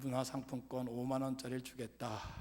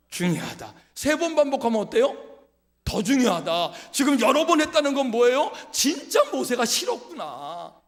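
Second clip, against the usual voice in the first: 높고 크게 외치듯 설교; 회중을 향해 힘차게 몰아붙이는 설교; 열정적인 설교; 10 semitones higher, 14 dB louder than usual. Acted. Preacher builds to full force. (설교자가 회중에게 힘주어 외치는 설교)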